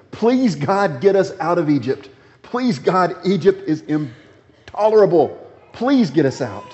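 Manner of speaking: pleading Israelites. Retold or imitated. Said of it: "They were pleading with him".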